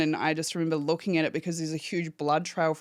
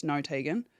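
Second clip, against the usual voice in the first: softer, steady, reassuring operator; calmest voice; 3 semitones lower, 5 dB quieter than usual. Retold or imitated. The phone operator correcting Tegan, quiet and calm. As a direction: settle her down gently but firmly. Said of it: "in the calmest voice".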